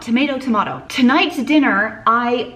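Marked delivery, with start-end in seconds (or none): 0.0-0.8 first "Tomato" as to-MAY-to, second "tomato" as to-MAH-to; two tomato pronunciations. Shown as a demonstration. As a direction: contrast the vowels in "Tomato, tomato": may, then mah. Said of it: "Say it however you want".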